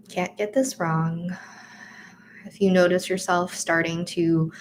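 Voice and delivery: calm, unhurried meditation guide voice; soothing breathing cue; guided meditation. Acted. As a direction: lead the breath gently, like a teacher guiding a class. Guided meditation body scan.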